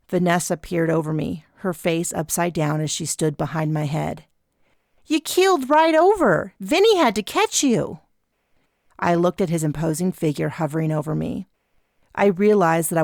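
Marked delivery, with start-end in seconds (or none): 5.1-8.0 put-on higher, lighter girl's voice; young woman voice. A narrator's reading. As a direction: voice the friend higher. Vanessa voiced in story.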